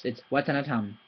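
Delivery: watanatam with all syllables equal, no stress; correct even version. Shown as a demonstration. Teacher giving the right pronunciation after wrong ones. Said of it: "It's none of those".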